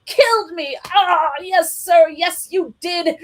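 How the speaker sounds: high mock groan; high hammy killed me; hammed-up dying. A narrator's reading. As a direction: play dead for the kids.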